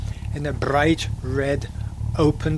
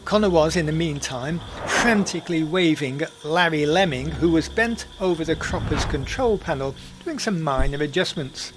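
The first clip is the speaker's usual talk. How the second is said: lively storyteller narration; story narration. A narrator's reading. Podcast narrator telling the Banania tale in storyteller style. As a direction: spin the tale for listeners.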